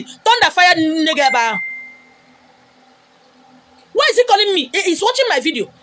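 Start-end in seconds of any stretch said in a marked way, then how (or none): 0.0-1.6 imitating the commenter. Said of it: "he's calling me".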